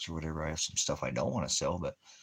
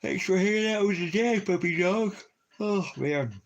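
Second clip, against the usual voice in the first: very high, loud squeaky voice for the dog; cartoonish high-pitched pet voice; squeaky puppy voice; 9 dB louder than usual. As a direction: thank the dad as the squeaky puppy.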